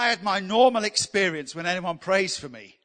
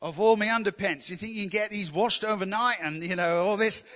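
imitating an Australian visitor, accent half-hearted; attempted Australian accent; 2 semitones higher than usual. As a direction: have a go at a casual Australian accent. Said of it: "I can't do Australian accent".

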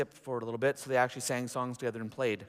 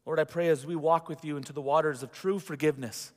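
closing prayer. Real, not acted.

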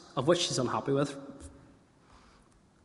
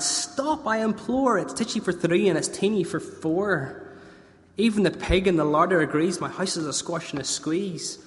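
put-on much higher, pleading old woman; desperate old lady; 4 semitones higher than usual. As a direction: beg like a frantic granny.

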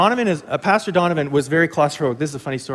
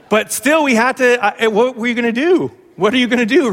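higher and louder, what can you do; a higher, louder exasperated shrug; exasperated resignation; 6 semitones higher, 4 dB louder than usual. Real, not acted. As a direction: throw up your hands at it.

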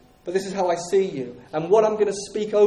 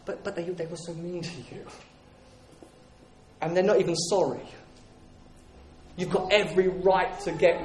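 tempting stronghold voice. Acted. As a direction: sweet-talk them toward revenge, hushed. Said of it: "And then it comes in".

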